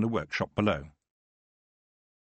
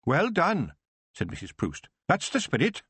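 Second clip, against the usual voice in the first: put-on old witch praising Tiffany's plans, high voice; approving old witch; 7 semitones higher than usual. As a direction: cheer her on as the old witch.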